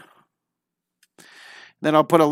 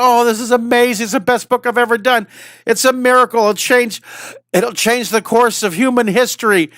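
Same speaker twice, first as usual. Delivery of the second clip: retold excitement; 6 semitones higher than usual. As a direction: replay how thrilled she was opening the box. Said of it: "I'm all excited".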